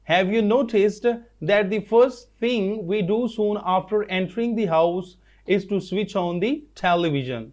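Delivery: very slow, word by word reading aloud; slow dictation reading. Shown as a demonstration. Teacher reading textbook line to students, slow and careful. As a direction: read it out slowly so the class can follow. Repeats sentence slowly.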